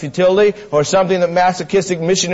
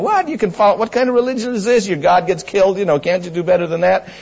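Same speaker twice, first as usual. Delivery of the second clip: fast, high scoffing Greek; mocking skeptics; 4 semitones higher, faster than usual. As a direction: sneer like a doubting Roman. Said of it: "the Greeks and the Romans were saying".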